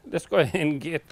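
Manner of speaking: breathless, panting between words; short of breath from hauling stuff. Real, not acted. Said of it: "I'm out of breath".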